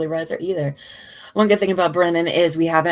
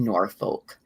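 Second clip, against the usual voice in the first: Boston accent; 7 semitones lower than usual. Shown as a demonstration. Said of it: "favorite thing so far with the Boston accent".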